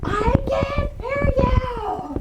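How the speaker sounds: loud, slow, high yell as if deaf; mock shout. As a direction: shout like you can't hear yourself. Mock deaf after spell.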